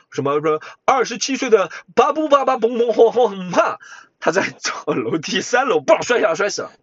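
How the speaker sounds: mock urgent news anchor; breaking news. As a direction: parody a breaking news bulletin. Parodies a news bulletin. (模仿突发新闻主播的腔调)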